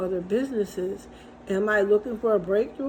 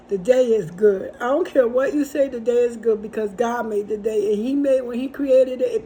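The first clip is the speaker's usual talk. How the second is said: louder, insisting the day is good; emphatic declaration; 2 semitones higher, 5 dB louder than usual. Retold or imitated. Answering grumpy coworkers at seven a.m., louder and insistent. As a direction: push back with conviction.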